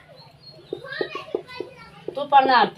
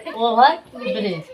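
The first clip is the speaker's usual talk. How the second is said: slow, word by word: ओवर ब्रिज; slow read-aloud demo; 2 semitones lower, slower than usual. Shown as a demonstration. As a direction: spell out ओवर ब्रिज slowly for the class. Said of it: "तोड़ तोड़ के पढ़ो". (धीरे-धीरे पढ़कर दिखाना)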